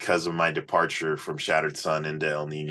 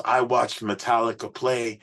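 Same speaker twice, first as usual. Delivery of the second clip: imitating Johnny; 6 semitones higher than usual. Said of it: "He goes".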